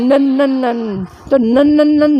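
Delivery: repeated "نن" said as a clear nasal nun, one after another; drilling the nun sound. Shown as a demonstration. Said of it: "نن کی آواز نکالنی ہے".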